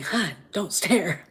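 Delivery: slow, hushed whisper from Leia; whispered warning. Retold or imitated. Leia whispering to Han not to stare, slow hush. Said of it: "Leia going".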